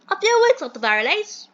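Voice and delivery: high, hammed-up British gent; bad British accent. Mentor frets over overdue bills, hammed-up British accent. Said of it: "do the worst British accent".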